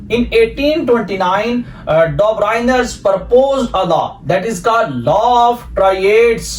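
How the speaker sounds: very slow, word by word, for students to copy down; teacher dictating in English at a crawl; slow dictation. Shown as a demonstration. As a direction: dictate it slowly like notes for the class.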